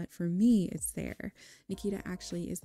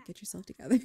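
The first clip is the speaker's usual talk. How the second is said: louder, firmer self-scolding; mock panicked pep talk, suddenly raised; freaking out; 6 dB louder, faster than usual. Nervous applicant telling herself off before interview, louder and flustered. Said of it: "She's freaking out".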